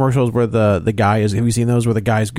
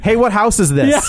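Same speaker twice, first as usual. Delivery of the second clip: put-on high, slow naive kid voice; 9 semitones higher, slower than usual. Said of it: "where he's just like".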